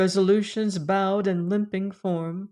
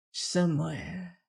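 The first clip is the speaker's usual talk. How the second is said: faint whisper; 7 dB quieter than usual. A narrator's reading. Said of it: "she whispered".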